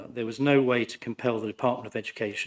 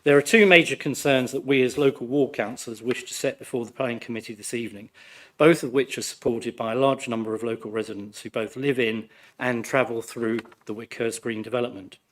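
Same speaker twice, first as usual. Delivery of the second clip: hoarse, croaky from flu. Real, not acted. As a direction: speak through a sore, croaky throat. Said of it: "Please excuse my croaky voice".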